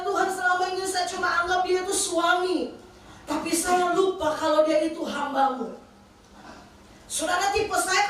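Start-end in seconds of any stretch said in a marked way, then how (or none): 0.0-5.8 high, raised confession to God; pleading confession. Retold or imitated. Wife confessing to God about her husband, earnest pleading re-enactment. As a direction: cry out the admission, pitched up.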